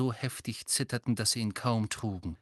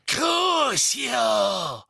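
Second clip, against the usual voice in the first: higher, loud vicious spell; shouted curse; 7 semitones higher, 5 dB louder than usual. A narrator's reading. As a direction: spit the curse out with cruelty. Bellatrix casts torture curse. (grausam geschrienener Fluch, höher und lauter)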